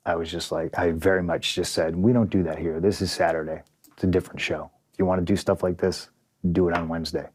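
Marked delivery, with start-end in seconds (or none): 2.0-7.3 calm, slightly lowered voice; polite, unraised voice. Retold or imitated. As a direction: explain it evenly without raising your voice. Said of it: "I politely explained that to him. I didn't raise my voice".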